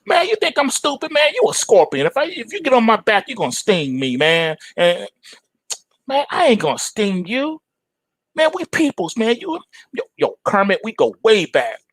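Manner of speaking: put-on a suspicious frog squeaking back at his old buddy. The frog telling the scorpion he's no fool, in a high voice. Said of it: "frog answering scorpion".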